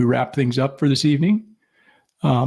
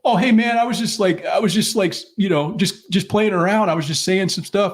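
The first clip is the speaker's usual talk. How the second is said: higher-pitched imitation of flustered excuses; mock backpedaling; 6 semitones higher than usual. Meth addict caught insulting a stranger at the gas station, mock backpedaling. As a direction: play a guy lightly stammering his way out of it.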